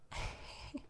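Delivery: faint whispered giggle; breathy snicker. Acted. Demon wishing the human hellish dreams, breathy snicker. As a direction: snicker very softly, almost silently.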